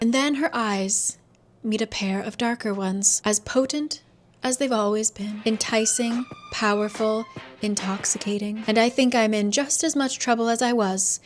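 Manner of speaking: measured narration with lingering pauses; dramatic book reading. A narrator's reading. Narrator recalling a former love's eyes, understated drama. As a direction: read it like a smouldering romance passage.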